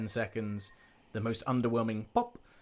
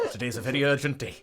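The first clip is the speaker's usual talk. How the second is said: put-on Welsh accent. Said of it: "It's extra hard in a Welsh accent".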